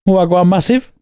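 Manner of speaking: casual mock Jamaican greeting; Jamaican accent. Podcast host recalling Jamaican banter, light Jamaican accent. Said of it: "you was doing Jamaican before we started".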